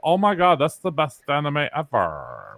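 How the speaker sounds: put-on California accent, gushing over anime. Teasing friends about anime, put-on California accent. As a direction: lay on a mock California accent. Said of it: "your new accent".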